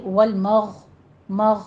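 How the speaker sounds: مغ halted on the throaty gh; slow والمغ, closing firmly on gh; stop on ghain. Shown as a demonstration. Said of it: "یہ آپ نے stop کرنا ہے".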